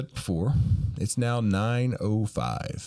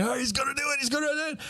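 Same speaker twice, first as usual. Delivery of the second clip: excited anticipation; 13 semitones higher, faster than usual. Retold or imitated. Jokers watching anxiously.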